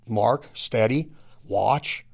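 slow, low, steady commands to a dog. Acted. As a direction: hold the dog steady, drawn out.

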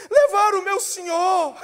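acted tearful complaint; mock lament. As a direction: plead like a distraught mourner, hammed-up. Weeping Maria answers the angels.

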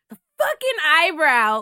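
mock exasperation, drawn out; pissed off. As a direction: act out cursing at a stubborn eyebrow. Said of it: "really pissed off in the morning".

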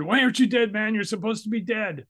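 imitating a rattled gunman yelling; freaked out. Shooter freaking out at his victim, high panicked yell. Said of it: "he freaked out".

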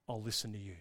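low, soft giving in; quiet surrender. Acted. A believer comes to the Father, quietly surrendering. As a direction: drop the voice and yield.

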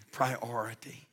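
priority murmured as an afterthought; soft echo. Shown as a demonstration. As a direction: let priority fall away quietly.

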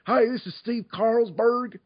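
high, slow Southern drawl; put-on Southern character voice, pitched high; Southern accent. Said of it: "I did it with a Southern accent".

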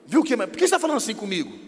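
mock marital irritation, rushed; acted touchy retort. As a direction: bristle at the partner's question. Acted marital quarrel, wife takes offence.

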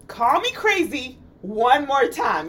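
slow mock threat quoted from a film; movie-scene threat. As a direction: dare them menacingly, word by word. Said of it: "Y'all remember that scene?".

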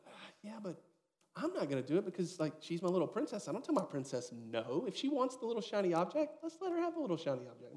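a hint of a fond, indulgent father; doting dad. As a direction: play the dad who can't say no, half joking. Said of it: "I'm like".

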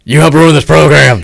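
a stern coach impression; Tom Crean voice. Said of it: "Tom Crean voice".

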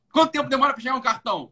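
impatient. Retold or imitated. Retold impatient question.

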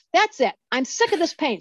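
high pitched fed-up cry; mock scream at God. Woman in pain ordering God to help, high fed-up yell. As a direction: throw it upward, done with the pain. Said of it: "like, just scream".

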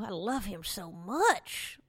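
slow, dreamy swoon over a crush. Real, not acted. Comic gushing over Governor Cuomo, slow and dreamy. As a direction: melt a little as you say it.

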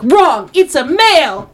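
high, slow, hammed-up proclamation; self-righteous shock reveal. Imitating a high-school troupe trying to shock, hammy stage reveal. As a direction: declare it like a student actor dropping a bombshell. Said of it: "things that are supposed to be shocking".

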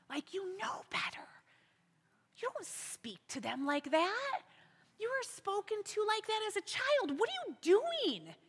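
a quiet, pointed rebuke to yourself; hushed self-scolding. Retold or imitated. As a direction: whisper it like a conscience telling you off. Scolding herself inwardly.

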